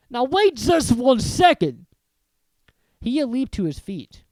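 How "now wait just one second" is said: slow, loud, high roar; thundering. Acted. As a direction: hold everything, furious giant. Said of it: "Hagrid thundered".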